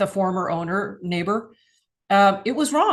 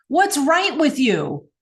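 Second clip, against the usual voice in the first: kind question; 4 semitones higher, 4 dB louder, slower than usual. Shown as a demonstration. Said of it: "you get very different feelings".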